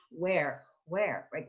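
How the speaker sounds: where with a breathy H before the W. Shown as a demonstration. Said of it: "almost like an H sound before".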